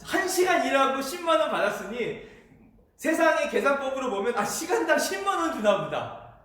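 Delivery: acted-out worker's eager guess; excited anticipation. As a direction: work out the windfall with rising hope. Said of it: "얼마나 설레겠어요".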